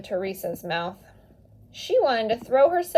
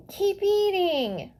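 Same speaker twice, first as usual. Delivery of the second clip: scolding; 8 semitones higher, slower than usual. A narrator's reading. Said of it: "Maria scolded".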